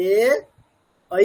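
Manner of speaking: এ as a long pure e, ঐ as a full a-i glide; clear, distinct vowels. Shown as a demonstration. Teacher contrasting two Sanskrit vowels, এ and ঐ said distinctly. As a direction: sound out এ, then ঐ, each separately and fully. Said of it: "কিন্তু এখানে স্পষ্ট বলতে হবে".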